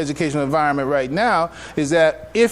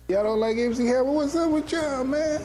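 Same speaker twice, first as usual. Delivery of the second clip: playful teasing; 9 semitones higher, 4 dB quieter than usual. Real, not acted. Teasing the audience after a joke.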